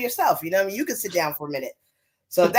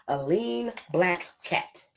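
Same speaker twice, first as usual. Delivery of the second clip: lilting, rhythmic picture-book reading; mama shushing animals in singsong verse; reading to children; 3 semitones higher, slower than usual. Acted. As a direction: swoop up on the pleas, settle on the refrain. Reads picture book aloud.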